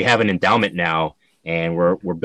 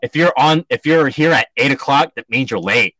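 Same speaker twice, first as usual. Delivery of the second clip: raised, exasperated telling-off; a stern senior chewing out a latecomer; strict scolding; 5 semitones higher than usual. Retold or imitated. Senior scolds a late teammate at practice, stern telling-off.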